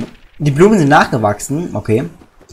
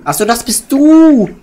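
much higher, slower surprised exclamation; 10 semitones higher, 7 dB louder, slower than usual. Acted. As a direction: realize it all at once. Voicing surprised character.

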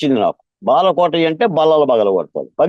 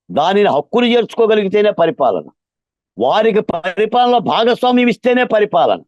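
raised, high-pitched insistence; forceful speech; 4 semitones higher than usual. Real, not acted. Activist driving the point home to those in power, forcefully. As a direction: pitch it up so they are sure to hear. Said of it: "ఇంత గట్టిగా ఎందుకు చెప్తున్నాను".

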